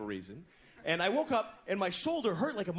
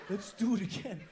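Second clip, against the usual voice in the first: creepy. Retold or imitated. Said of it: "creepy like that".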